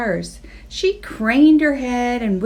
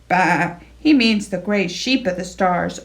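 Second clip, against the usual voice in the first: arguing; 3 semitones lower than usual. Acted. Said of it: "argued the sheep".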